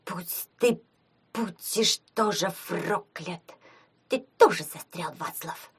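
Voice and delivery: halting, resigned grumble; doomed complaint. A narrator's reading. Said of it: "обречённо пожаловался уже знакомый Тане голос". (обречённая жалоба)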